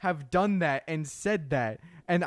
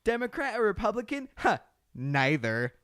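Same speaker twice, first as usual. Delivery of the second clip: smug centrist; 4 semitones higher than usual. Retold or imitated. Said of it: "one of those centrist people that's like".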